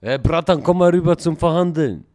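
shouted call across a distance; loud summons. Pretend. Gang member summons rival to negotiate, shouting. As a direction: call them over at full voice. Calling opponent over to negotiate.

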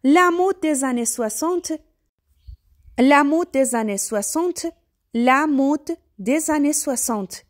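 slow, careful French "la mode des années soixante"; French pronunciation. Shown as a demonstration. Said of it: "یعنی مد دههٔ شصت".

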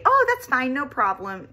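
bright, high, falsely cheerful oh; fake politeness. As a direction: sing out a sweet lie that everything's fine. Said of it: "that's a lie".

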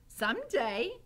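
high-pitched character voice; lightly voiced eager girl; Mig. A narrator's reading. Mig telling Gregory her deepest wish, high voice. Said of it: "she said".

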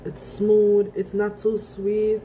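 straw at the lips; speaking while sipping drink; talking between sips. Real, not acted. Seen 3: Cup held up, straw touching her lips through the labelled words.

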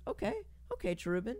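soft, halting imitation; imitated resigned okays. Streamer acting out reading a Cherubin paragraph, soft mock acknowledgement. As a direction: mumble a string of okays under your breath. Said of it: "it goes".

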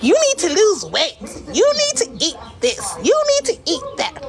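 high, nagging mock of the viewers; mocking commenters. Streamer imitates viewers nagging her about weight, high and nagging. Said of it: "Since you guys be like".

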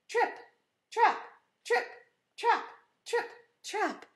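short, evenly spaced beats; hoofbeat imitation. Shown as a demonstration. Teacher leading children in hoof sounds, rhythmic imitation. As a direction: leave a gap after each hoof step. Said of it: "Can you read the words?".

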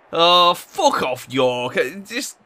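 slow, loud drawn-out curse at the rival; angry outburst. Real, not acted. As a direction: spit it out at the screen, furious. Rival scores, streamer furious.

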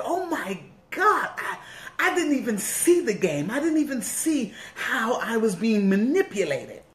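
a rueful laugh at her own blindness; stunned realization. Retold or imitated. Woman retelling the moment she saw the game, laughing disbelief.

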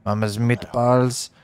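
put-on slow hammy Italian accent. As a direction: drag it out in a cartoon Italian accent. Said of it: "The Italian Wolverine".

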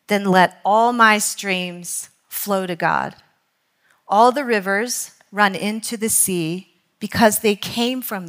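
measured, deliberate quotation reading; slow read-aloud, letting each phrase land. Real, not acted. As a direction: read it slowly, pausing between phrases. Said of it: "I'm gonna read it slowly".

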